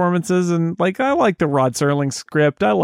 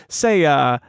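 low stern warning; 7 semitones lower than usual. Retold or imitated. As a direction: warn him low and stern. Acting out a security warning.

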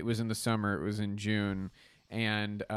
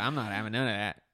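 Pittsburgh guy refusing; 3 semitones lower, faster than usual. Retold or imitated. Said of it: "I was like".

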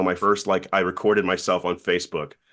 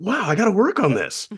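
high goofy voice; 12 semitones higher, 3 dB louder than usual. Retold or imitated. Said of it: "And I was like".

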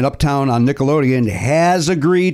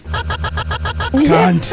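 sexy voice; 5 semitones higher than usual. Pretend. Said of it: "I should just say cunt in a sexy voice".

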